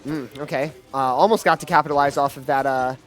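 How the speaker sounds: lively esports caster call; play-by-play commentary. Acted. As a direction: call the action as it happens. Live play-by-play of the match.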